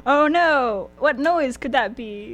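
feigned surprise. Acted. Co-host acts oblivious to the gunshots, hammed-up innocence. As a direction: play badly faked alarm, drawing it out. Acting out a sham alibi.

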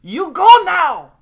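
put-on shouted, high-pitched Chinese accent; Chinese accent impression. Buffet owner throwing out a big eater, shouted Chinese accent. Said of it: "impression of a, of, I guess, a Chinese lady or a Chinese man".

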